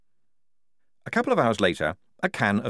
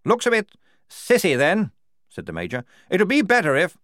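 gruff officer voice; 10 semitones higher, 5 dB louder than usual. A narrator's reading. Major scolding the recruit.

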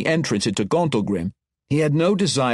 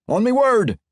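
a higher, louder dwarf order; firm command; 9 semitones higher, 4 dB louder than usual. Acted. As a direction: give the signal, loud and high. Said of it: "he instructed".

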